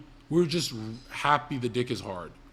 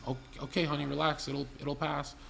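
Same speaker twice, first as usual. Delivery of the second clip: softer, lightly voiced reassuring mother; quietly soothe, as a mild mom; imitated Mormon mom; 6 dB quieter than usual. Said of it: "like white Mormon lady".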